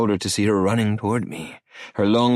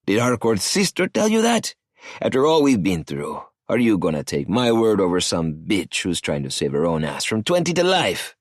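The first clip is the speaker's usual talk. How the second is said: a lightly voiced cocky older man, pitched up; arrogant cartel boss; 2 semitones higher than usual. Cartel boss Emilio needling Maddie on the phone, sneering. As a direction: sneer the question at him.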